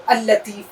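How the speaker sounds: اللطیف said al-latif, the ll doubled and stressed; doubled lam. Shown as a demonstration. Teacher showing students the shadda on lam. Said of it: "لام پر ہم نے تشدید لگا دی".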